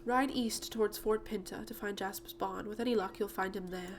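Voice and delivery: lightly acted British lady; British accent. Miss Holdsworth sends the rider to Jasper, British accent. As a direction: send them off in a British accent. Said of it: "I gave her a British accent".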